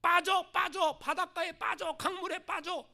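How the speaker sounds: mock devil egging someone on, slow; tempting devil. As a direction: lure them into the water like a devil. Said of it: "막 속삭여요".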